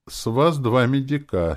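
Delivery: high, loud, croaky voice; husky zombie cabman. A narrator's reading. Dead cabman asks the hero for fare, hoarse. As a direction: rasp out the fare like a corpse. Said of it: "сипло произнёс он".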